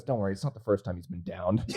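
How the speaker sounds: punchline cracked by laughter; can barely get the words out for laughing; laughing through the quote. Retold or imitated. Retelling friend's punchline.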